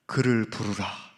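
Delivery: Jesus tenderly commanding them to call the beggar; merciful voice. Retold or imitated. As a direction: speak it gently as Jesus calling. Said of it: "자비로우신 음성으로".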